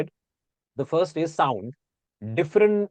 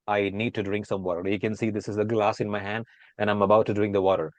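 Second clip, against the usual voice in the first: American accent; 4 semitones lower than usual. Shown as a demonstration. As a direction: read it in your smooth American accent. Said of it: "now I'm changing this into Indian accent".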